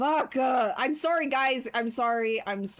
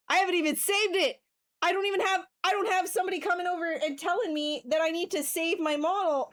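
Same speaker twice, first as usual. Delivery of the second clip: higher, quick alarmed rant; worked-up realisation; 6 semitones higher, faster than usual. Real, not acted. Streamer realising the model was never saved, quick worked-up rant. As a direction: rush it out higher, getting worked up.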